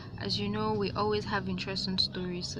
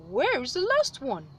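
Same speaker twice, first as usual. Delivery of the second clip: louder, higher demand; sky god; 5 semitones higher, 5 dB louder than usual. A narrator's reading. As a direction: demand it a little sharply. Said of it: "But Inyame just said".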